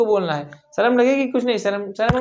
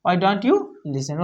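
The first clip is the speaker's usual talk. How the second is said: slow dictation; 3 semitones lower, much slower than usual. Shown as a demonstration. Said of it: "यहाँ लिख दीजिए".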